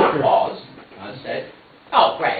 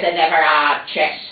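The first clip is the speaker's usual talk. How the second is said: mocking rant; 4 semitones higher, 3 dB louder than usual.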